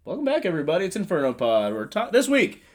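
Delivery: loud, high-pitched hyped-up welcome; over-excited podcast host; jazzed, nearly angry. Real, not acted. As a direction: burst in jazzed, almost shouting. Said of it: "So angry".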